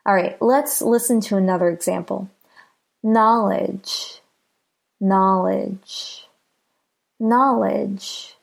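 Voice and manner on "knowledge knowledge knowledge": "Knowledge" with the first syllable longer and a little stronger; careful "Knowledge", weight on KNOW, light ending; stress on first syllable. Shown as a demonstration. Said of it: "na is a little longer and a little louder".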